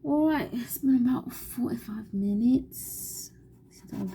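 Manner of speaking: whisper. Real, not acted. Painting vlog, soft whispered talk.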